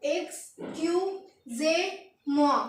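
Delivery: एक्सक्यूजे drawn out slowly, syllable by syllable; slow, careful एक्सक्यूजे; slow teaching demo. Shown as a demonstration. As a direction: stretch out एक्सक्यूजे slowly for learners. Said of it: "क्या पढ़ेंगे हम इसे?".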